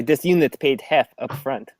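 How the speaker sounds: flat robot voice. Acted. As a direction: correct itself into robot speak. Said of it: "stealthy robotic voice".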